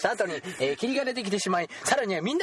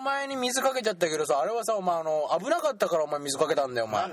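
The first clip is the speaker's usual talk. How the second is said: mock bully; 2 semitones higher than usual. Bully denies bullying, excuses.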